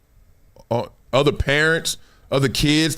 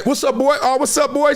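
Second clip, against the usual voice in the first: calling out greetings; 10 semitones higher than usual. Retold or imitated. Greeting friends in the stands.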